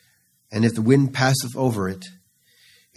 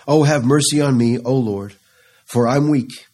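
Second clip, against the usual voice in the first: rising, louder anguished plea; a preacher voicing David's cry for mercy; pleading cry; 3 semitones higher, 4 dB louder than usual. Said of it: "what David is crying here unto".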